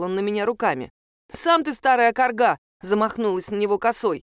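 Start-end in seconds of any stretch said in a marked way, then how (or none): 1.3-2.6 louder, higher retort; shouting back. Acted. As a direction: snap it right back at him. She swings her scythe at him.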